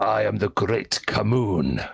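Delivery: grand, deep, low, rough-edged stone-creature voice. A rock creature answers Giselle's question of who it is, in a deep voice. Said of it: "you hear a deep voice".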